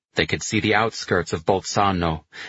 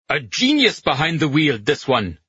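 high exclamation, settling at the end; elated praise; 7 semitones higher, 3 dB louder than usual. A narrator's reading. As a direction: crow about the driver after a narrow escape. Lyers congratulates driver after narrow escape.

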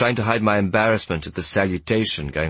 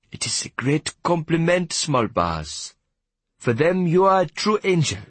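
high, swooping character voice; deferential prisoner; 9 semitones higher than usual. Acted. Prisoner explains the nickname to the boy, deferential. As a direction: play a prisoner flattering a young boss. Prisoner Giel Piet speaks.

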